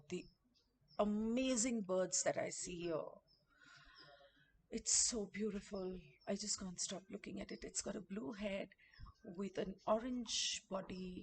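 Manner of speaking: soft, gentle, careful, hushed murmur. Speaker watching a bird, not wanting it to fly away, talking softly. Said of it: "I'm t- talking softly because I don't want it to fly away".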